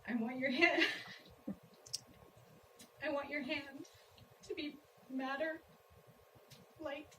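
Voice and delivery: measured, spaced-out verse reading; poem recitation. Acted. Wife reads a poem about long marriage, poem recitation. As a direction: pause between images, lifting the final phrases.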